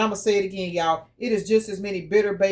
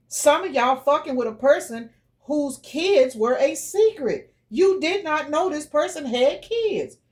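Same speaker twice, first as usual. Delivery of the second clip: slow, deliberate, higher pitched; slow emphatic reveal; 5 semitones higher, slower than usual. Real, not acted. Tarot reader revealing hidden kids, slow and deliberate. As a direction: lay it out slowly for effect. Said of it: "slow emphatic revelation".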